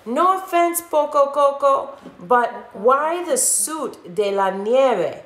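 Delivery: high, slowing teasing question; curious pup. Acted. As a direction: ask it like a puzzled little dog. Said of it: "asked Don Diego".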